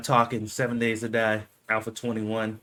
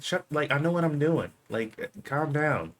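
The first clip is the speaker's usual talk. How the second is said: higher-pitched retold testy comeback; lightly acted annoyed reply, stretching the end; mock irritation; 5 semitones higher than usual. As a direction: imitate someone fed up with being told what to do.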